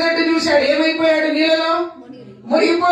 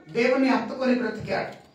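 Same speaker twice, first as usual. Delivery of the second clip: soft echo; 4 semitones lower, 8 dB quieter than usual. Acted.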